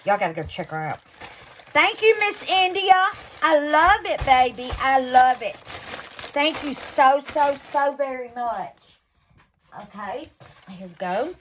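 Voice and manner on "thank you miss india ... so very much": gushing thanks. Real, not acted. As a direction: pour out grateful thanks.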